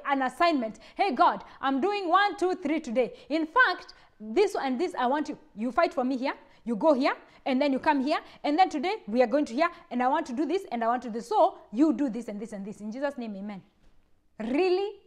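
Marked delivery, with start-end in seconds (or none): 0.9-13.6 brisk, bossy orders tossed at God; mock selfish prayer. Preacher mocking a bossy prayer, louder. 14.4-15.0 a sharp, higher "Really?"; incredulous. Real, not acted. Preacher scoffing at a selfish prayer, incredulous.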